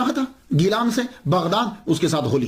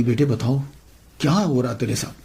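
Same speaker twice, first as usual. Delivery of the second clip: a lower, gently voiced mother; worried mother; 5 semitones lower than usual. Mother asking her troubled son, lightly voiced worried mother.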